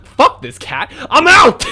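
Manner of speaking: high shouted exit line; loud bail-out. Pretend. Player joking they'd ditch the cat girl, loud high shout. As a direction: yell it and run.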